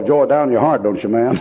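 ordinary talk, nothing marked

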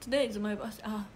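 put-on halting Japanese-accented English; broken English. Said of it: "片言で言う。".

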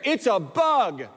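put-on high, slow little girl; child's scared voice. Daughter names the bug.

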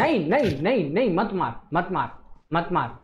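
rapid repeated no, pitch swinging up and down; urgent pleading no. Real, not acted. Player stopping teammates from shooting, urgent. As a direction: frantically stop your teammate with repeated no.

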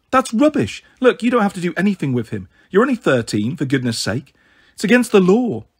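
high, outraged scolding; indignant. Acted. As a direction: scold her in disbelief.

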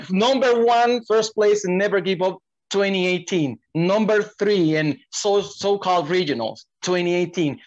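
high, booming ring announcer; lucha libre announcer. Acted. Lists the guest's titles.

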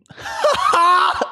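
high, loud burst of laughter; exasperated loud outburst. Real, not acted. Streamer mocking own stumbles, loud high outburst. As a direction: explode in a high cackle.

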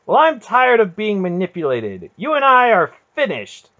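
very high, loud furious tirade; runaway anger. A narrator's reading. Garion turning on his aunt, runaway fury. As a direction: let the words rush out in uncontrolled anger. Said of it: "his anger had finally run away with him".

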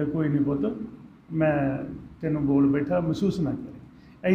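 soft, gentle father's apology; father softly saying sorry to his son; soothing apology. Acted. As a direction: ease the son's hurt softly.

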